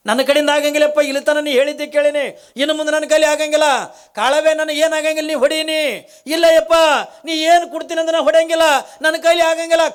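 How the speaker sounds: high, loud anguished pleading; pleading refusal. Acted. Kalavve pleads refusing the Jangama. (� ಎತ್ತರದ ದನಿಯಲ್ಲಿ ಬೇಡಿಕೊಳ್ಳುವುದು)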